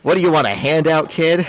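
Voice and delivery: mock boss sneer. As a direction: scoff at the kid. S1 voicing Jonah sneering.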